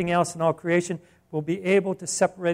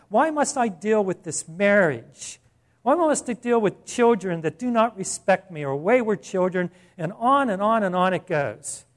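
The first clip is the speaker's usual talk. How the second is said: whiny complaints; 3 semitones higher, 4 dB louder than usual. Pretend. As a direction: act out a grumbling believer asking why. Mocking the complaining believer's questions.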